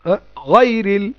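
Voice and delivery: slow drawn-out gayril; teacher's model. Shown as a demonstration. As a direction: stretch out গয়রিল with a long pull. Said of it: "টানবেন এখানে".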